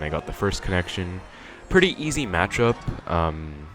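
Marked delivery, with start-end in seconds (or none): 1.7-2.8 high-pitched impression of a game commentator; badly imitated commentator, pitched up; Best N A. Player mimicking a commentator to close the match, bad impression. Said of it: "that was a really bad impression of Best N A".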